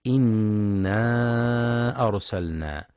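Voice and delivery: إنا أرسلنا with the final alif of إنا stretched four to five beats; separated madd. Shown as a demonstration. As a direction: hold the long vowel in إنا أرسلنا. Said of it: "وينتبه للمد المنفصل في". (مد منفصل في إنا أرسلنا)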